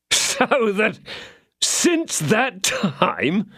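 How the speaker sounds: a hint of a plaintive innkeeper, drawn out. A narrator's reading. Innkeeper voiced in story.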